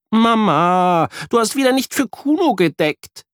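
put-on high child voice, mildly reproachful; a hint of a child's scolding; scolding boy. A narrator's reading. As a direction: kid complaining to mum. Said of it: "schimpft Jan".

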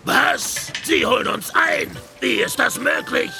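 incredulous shouted questions; can't believe it, shouting; outraged disbelief. Acted. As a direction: bellow it in alarmed outrage. Pirate captain sees pursuers catching up.

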